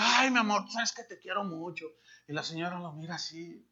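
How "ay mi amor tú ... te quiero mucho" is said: mock sweet husband, softening to a near murmur; secret sweet talk. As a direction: coo it like a two-faced husband. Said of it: "en secreto le dice". (marido hipócrita, susurrando dulzuras fingidas)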